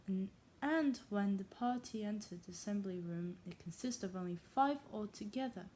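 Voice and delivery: put-on reading aloud in a tentative English accent; attempted English accent. Untrained reader trying a classic novel, English accent. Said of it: "kinda good in terms of accent".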